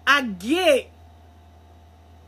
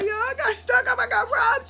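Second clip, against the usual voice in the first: imitating baby mom; 14 semitones higher than usual. Mimicking baby mom reporting robbery.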